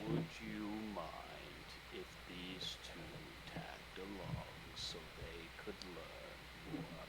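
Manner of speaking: very slow, careful request; deliberate, formal professorly asking. Acted. Professor asking gardener to let pupils tag along, formal and slow.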